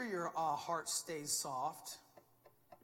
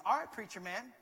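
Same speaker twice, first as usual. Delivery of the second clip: sweet teasing; 3 semitones higher, 5 dB louder than usual. Retold or imitated. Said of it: "in a very sweet way".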